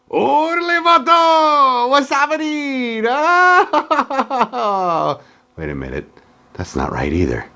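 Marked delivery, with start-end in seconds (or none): 0.1-5.2 put-on Mexican accent. Skit voice after lights go out.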